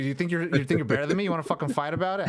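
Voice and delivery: fast, jokey tough-guy challenge; half-serious picking a fight, rapid; mock challenge.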